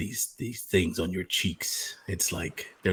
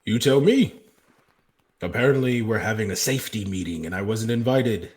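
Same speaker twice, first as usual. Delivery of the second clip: confrontational; 2 semitones higher, 6 dB louder than usual. Acted. Confronting Damien.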